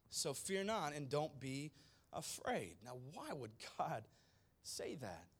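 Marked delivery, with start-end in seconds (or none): 0.1-2.8 gentle reassurance. Retold or imitated. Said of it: "flips the script and says".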